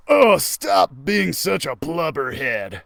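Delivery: slow, ordinary voice for Max; a misplaced character voice; wrong voice. Acted. Reader's wrong voice for Max scolding Geronimo. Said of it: "I did the wrong voice".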